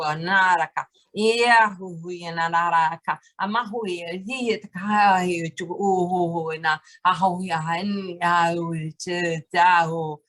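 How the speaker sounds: flowing chant of invented syllables; light language incantation. Acted. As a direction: let the sounds pour out like a prayer.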